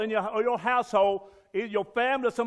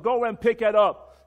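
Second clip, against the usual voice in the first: barked-out drill sergeant order, louder; retold drill sergeant command, louder; 6 dB louder than usual. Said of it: "when my drill sergeant said".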